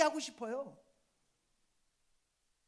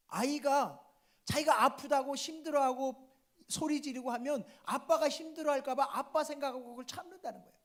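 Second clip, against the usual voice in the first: ordinary delivery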